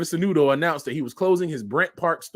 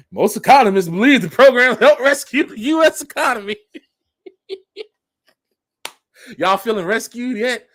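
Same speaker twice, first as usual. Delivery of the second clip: loud, higher, laughing sarcasm; sarcastic mocking; 6 semitones higher, 8 dB louder than usual. Mocking the news line to viewers, loud and laughing. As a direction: read the claim with a sneering laugh.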